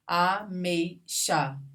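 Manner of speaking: "Ameixa" slowly as a-mei-xa; syllable by syllable. Shown as a demonstration. Teacher showing students a diphthong, slow syllables. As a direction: pause between syllables of "Ameixa", keeping "ei" together. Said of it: "Não se separam".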